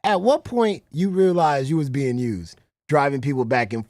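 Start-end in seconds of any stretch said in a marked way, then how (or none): 0.0-2.6 louder repeat. Shown as a demonstration. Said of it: "repeats the question".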